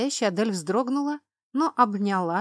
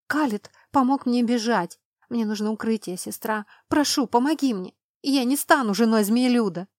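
terrified pleading hostage; 3 semitones higher, 4 dB louder than usual. Acted. Runaway princess begs for shelter.

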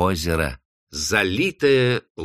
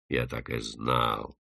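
grim realisation; 10 semitones lower, 9 dB quieter, slower than usual. Acted. Man concludes grimly to himself.

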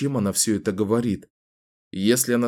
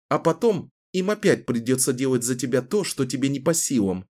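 slightly raised, contemptuous taunt; a hint of scornful defiance; 4 semitones higher than usual. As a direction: belittle him coolly. Kahlan mocks him. (Кэлен презрительно насмехается над Дэмином)

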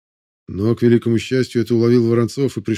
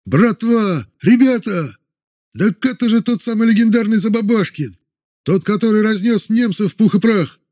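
excited shout; 11 semitones higher than usual. A narrator's reading. Soldier in crowd recognising the hero, excited shout. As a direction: announce the hero to everyone. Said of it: "из толпы раздался крик".

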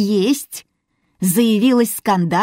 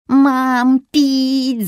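put-on child's plea; 6 semitones higher, 4 dB louder than usual. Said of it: "запрыгала Юля".

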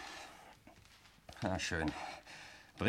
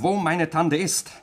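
slow louder threat; 5 semitones higher, 5 dB louder, slower than usual. Acted. Threatening to shoot.

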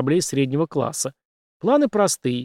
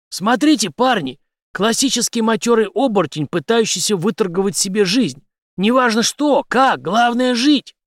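high, lively address to the lads; jovial, louder and pitched up; cheerful; 9 semitones higher, 5 dB louder than usual. A narrator's reading. Henry showing his lads a shapeshifter, cheerful. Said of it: "весело произнёс".

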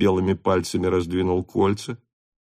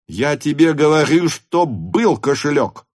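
high, angry yell at the servant; furious shout; 6 semitones higher, 3 dB louder than usual. A narrator's reading. Denisov shouts at the servant Lavrushka, furious. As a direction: bellow it, threatening. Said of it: "кричал Денисов".

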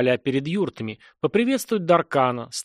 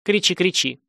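squeaked; 5 semitones higher than usual. Acted. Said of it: "пискнула".

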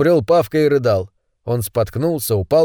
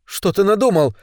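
anxious; 6 semitones higher than usual. A narrator's reading. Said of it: "взволнованно спросила Ольга".

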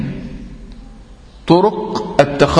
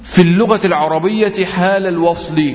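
slow emphatic rule; slower than usual. Shown as a demonstration. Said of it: "teacher stresses the rule slowly".

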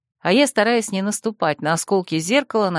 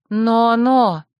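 firm warning interruption; stern; 3 semitones higher, 4 dB louder than usual. Acted. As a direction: cut her off sternly. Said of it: "строго перебила Василиса". (строго)

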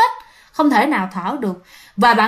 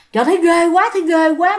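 higher-pitched, mildly spooked voice; a touch of retold dread; acted fright; 6 semitones higher, 3 dB louder than usual. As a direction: repeat it as if lightly creeped out. Acted quote of frightened sleeper.

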